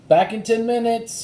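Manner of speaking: high, loud call through a door. Acted. Jack calling to his dad through the screen door. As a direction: call it back into the house. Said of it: "he called through the screen door".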